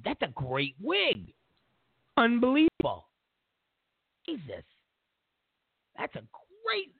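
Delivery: mock gushing over a weave; gushing praise. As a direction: lay the awe on thick.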